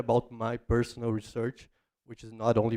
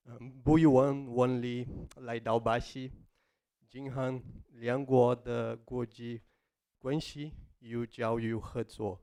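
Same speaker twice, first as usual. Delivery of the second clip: careful learner's Mandarin, foreign accent; foreigner speaking mandarin. Real, not acted. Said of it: "my Chinese is, is still developing".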